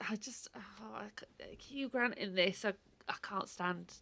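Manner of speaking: hushed, breathless whisper of dislike; drops to a whisper to admit it; whispered confession. Real, not acted. Friend confessing she can't stand Hugh Grant, whispering.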